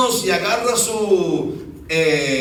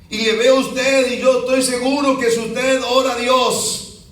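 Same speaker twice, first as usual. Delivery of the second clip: hopeful plea; 3 semitones higher than usual. Retold or imitated. Man pleading hopefully to the pastor.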